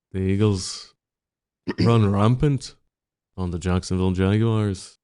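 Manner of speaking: put-on tongue-in-cheek Irish accent for a silly forecast; mock Irish accent. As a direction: spin the prediction like a storyteller in a put-on Irish accent. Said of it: "That is definitely an Irish accent".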